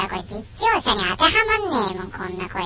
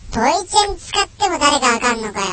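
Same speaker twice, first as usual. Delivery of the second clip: incredulous; 3 semitones higher than usual. Real, not acted. Incredulous echo of listener's comment.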